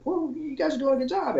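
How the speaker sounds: high, put-on impressed exec voice; mock executive praise. Mimicking important visitors, mock impressed. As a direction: ham up the bosses' praise.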